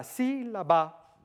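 sílaba drawn out, first syllable stressed. Shown as a demonstration. Lecturer showing tonic accent to the audience, stressed sílaba. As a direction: spell out sílaba slowly, leaning on SÍ. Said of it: "acentuada tiene un estrés superior".

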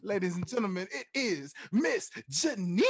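building hype introduction; grand entrance announcement. Acted. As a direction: roll out the red carpet.

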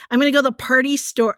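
rusty Michigan accent on local slang. Shown as a demonstration. Former local demonstrating party store talk, attempted Michigan accent. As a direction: lightly put on a Michigan accent. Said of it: "if you're in Michigan, you're like".

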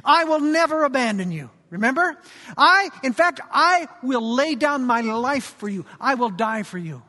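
a swaggering fisherman's loud oath; blustery boast. Retold or imitated. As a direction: puff up and promise too much, loudly. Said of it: "in his typical blustery fashion".

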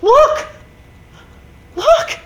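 retold insistence. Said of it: "She goes".

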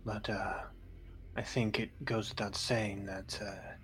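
soft, low-key priest's counsel; lightly voiced discreet priest. Priest advising a visitor to keep a secret, lightly voiced and discreet. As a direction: keep it hushed, as a priest giving a caution.

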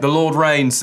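lightly imitated Australian accent, a bit British; attempted Australian accent. Preacher mimicking Australian scripture reader, half-successful Australian accent. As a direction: read it like an Australian, slipping toward British. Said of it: "that Australian guy comes out and reads".

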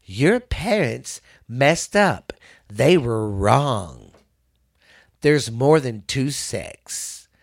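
slow, mock coaxing voice to kids; lightly imitated slow persuasive pitch; mocking Jeffrey. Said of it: "he starts out this little deal going".

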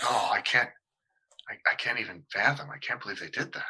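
quietly crestfallen, imitating a dismayed listener; downhearted parishioner. Pastor retelling a parishioner's reaction to Bible study, downhearted.

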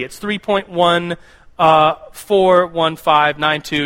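slow, deliberate digits; careful correction. Shown as a demonstration. Pastor correcting the youth group on pi, slow and deliberate. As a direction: spell out each digit slowly. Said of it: "so pi isn't three".

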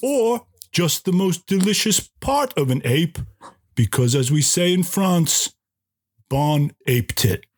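deliberate, badly faked French accent; mock French accent. Restaurant host describes a crepe filling, in a mock French accent. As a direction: pause grandly before the punchline, in mock French. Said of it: "I'll do my best French accent".

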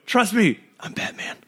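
high start, whispered end; Batman line. Retold or imitated. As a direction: pitch up then drop to a whisper. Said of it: "And I'm gonna go".

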